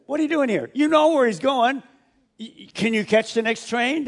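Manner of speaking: mock scolding angel. Angel nagging disciples, mildly exasperated. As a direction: hurry them along.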